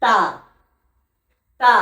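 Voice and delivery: তা with tongue tip at the gum ridge; careful letter drill; Arabic letter demo. Shown as a demonstration. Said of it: "তা উচ্চারণ হয় এই জিভের আগা".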